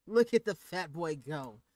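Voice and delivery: loud, slow mocking crone laugh; barking laugh. Grandmother mocking the fleeing boy, loud laughing crone. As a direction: laugh him off the field. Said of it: "barked out a single laugh".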